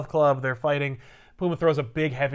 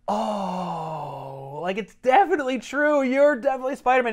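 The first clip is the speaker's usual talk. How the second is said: mock Mary Jane; 7 semitones higher than usual. Mary Jane confirms he's Spider-Man, hammed-up exasperation. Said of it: "she's like".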